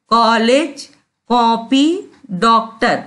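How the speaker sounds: "कॉलेज, कॉपी, डॉक्टर" with the open English o; open rounded o. Shown as a demonstration. Teacher lists half-moon words, open o in "कॉलेज, कॉपी, डॉक्टर". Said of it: "उच्चारण कैसा होता है इसका".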